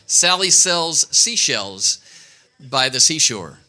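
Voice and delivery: slow, careful tongue twister; slow demo. Shown as a demonstration. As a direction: say each word deliberately. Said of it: "five times fast".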